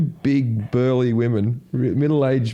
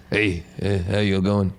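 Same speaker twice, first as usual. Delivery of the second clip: low, soft stoned mumble; imitating a laid-back, slightly stoned comedian; cocky, unhurried comic; 7 semitones lower, 3 dB quieter than usual. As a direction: take your time, lazily greeting the crowd. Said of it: "that cocky that they start thinking".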